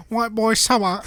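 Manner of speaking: put-on British accent. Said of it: "Can you say that in a British accent?".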